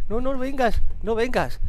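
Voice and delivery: frightened, urgent plea; panicked pleading. Real, not acted. Begging pursuing game woman to stay away.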